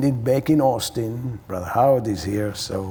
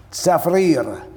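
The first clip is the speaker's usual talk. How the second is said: put-on best Mexican accent; 5 semitones higher, 4 dB louder than usual. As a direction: own name in a put-on Mexican accent, louder and higher. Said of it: "saying it with my best S-, Spanish accent, Mexican accent".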